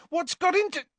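high exasperated demand, cut short. A narrator's reading. Harry questions Ron's madness, exasperated. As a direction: start demanding, then break off.

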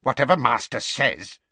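furious muttering. A narrator's reading. House-elf bowing to a hated master, muttering furiously. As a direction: give grudging obedience, seething. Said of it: "he muttered furiously".

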